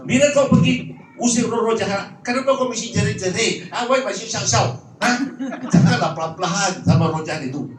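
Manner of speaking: imitated Singaporean auntie complaining; Singaporean accent. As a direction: question like a puzzled Singaporean auntie. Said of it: "secara orang Singapura".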